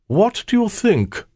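high, pompous king voice; Solomon voice. Pretend. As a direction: play the vain royal showman. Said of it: "Even the voice is pretty good".

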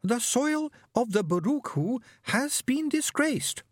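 high, slow alien hiss; a very high aggrieved alien voice. A narrator's reading. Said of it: "The servant hissed".

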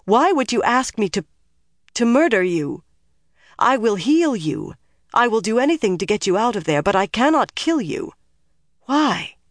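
high, distressed pleading; urgent, high-voiced disbelief; anguished protest. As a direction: protest in horror, voice pitched high. Horrified at being asked to kill.

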